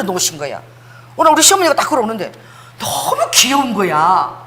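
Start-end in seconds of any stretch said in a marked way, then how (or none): 2.8-4.3 slow, stretched-out delight; adoring gush. Retold or imitated. Preacher recalling how cute mother-in-law suddenly looked, gushing slowly. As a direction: draw it out as if cooing.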